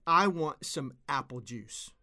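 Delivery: mock a kid bossily demanding juice; demanding child. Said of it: "just demanded".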